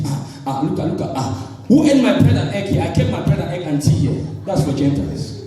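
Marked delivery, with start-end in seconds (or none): 0.0-4.2 mock fussing over breakfast. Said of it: "you are there busy".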